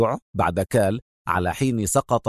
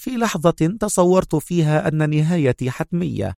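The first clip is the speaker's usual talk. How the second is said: proud telling, climbing in pitch; proud and grateful; 7 semitones higher than usual. A narrator's reading. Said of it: "لهجة تجمع بين الاعتزاز والامتنان".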